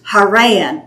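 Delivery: Haran said slowly, stress on RAN; slow, pressing the second syllable of Haran. Shown as a demonstration. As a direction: Haran with the weight on its last syllable. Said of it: "put the emphasis on the second syllable".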